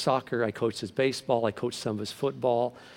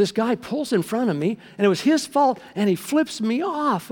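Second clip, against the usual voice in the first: retold indignation; 9 semitones higher than usual. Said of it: "And he said".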